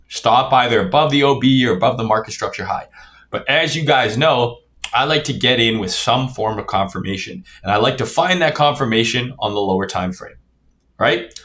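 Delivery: talking while chewing gum; words round a wad of gum. Real, not acted. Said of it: "I'm chewing gum".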